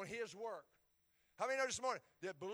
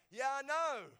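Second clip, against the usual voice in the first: higher, louder, fed-up reply; exasperated yeah I know; 6 semitones higher, 8 dB louder than usual. Retold or imitated. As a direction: answer the voice of condemnation, sick of it. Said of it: "And I go".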